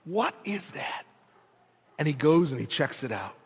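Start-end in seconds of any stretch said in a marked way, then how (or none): 0.0-1.0 tag. Acted. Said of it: "one reluctant hero who says".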